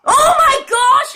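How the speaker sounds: high, drawn-out cry of disbelief; shocked exclamation. Real, not acted. Player astonished it keeps happening, high cry.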